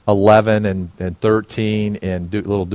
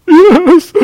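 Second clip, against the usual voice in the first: loud, high eager answer; an emphatic yes; 14 dB louder than usual. Retold or imitated. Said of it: "You wanna pray".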